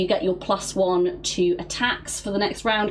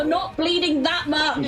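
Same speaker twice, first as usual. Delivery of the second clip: gaslighting reassurance; 7 semitones higher than usual. Acted. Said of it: "gaslighting him into feeling better".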